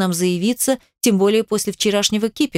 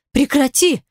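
cry out; 6 semitones higher than usual. A narrator's reading. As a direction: shout him down in alarm. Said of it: "вскричала я".

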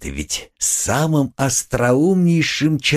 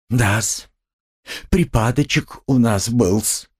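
clucking sympathy. Acted. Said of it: "закудахтал с дружественным участием".

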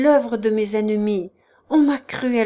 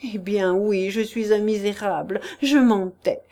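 desperate plea. Acted. Chichikov begs the prince for mercy, raised and desperate. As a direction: beg him with theatrical self-pity. Chichikov's tearful pleading confession.

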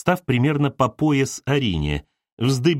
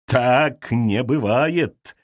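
very slow, firm dismissal; decisive; much slower than usual. Acted. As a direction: shut the idea down with certainty. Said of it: "решительно отвергла". (решительно, медленно отрезая)

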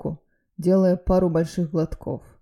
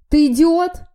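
much higher, loud scolding cry; furious yell; 11 semitones higher, 9 dB louder, slower than usual. A narrator's reading. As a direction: scream your disbelief at him. Friend scolds hero. (возмущённый крик)

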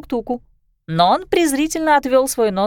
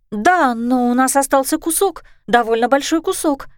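hopeful; 2 semitones higher than usual. Acted. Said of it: "с надеждой заметила Райя".

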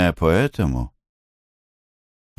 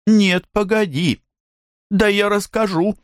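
put-on high, eager girlish insistence; insisting girl. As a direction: push on with the gossip, voice up high. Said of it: "настаивала мисс Дус". (настойчиво, высоким девичьим голосом)

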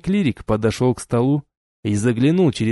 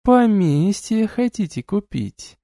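slow, higher, drawling sneer; drawn-out question; 9 semitones higher, slower than usual. A narrator's reading. Duchess drawling her suspicion at the couple. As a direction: drag the words out mockingly. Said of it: "протянула герцогиня".

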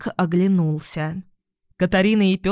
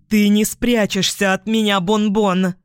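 menacing louder threat; angry growl; 2 semitones higher, 4 dB louder than usual. Acted. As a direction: snarl the taunt. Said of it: "зло прорычала Катарина". (злобный рык)

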